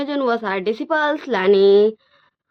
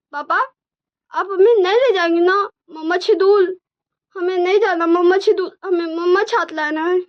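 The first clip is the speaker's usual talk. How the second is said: put-on high, louder little-kid pleading; cute child voice; 8 semitones higher, 5 dB louder than usual. Twins begging their papa not to send them away, cute high child voice. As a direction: plead like a sweet small child. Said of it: "वो एकदम cute voice में बोल रहे थे".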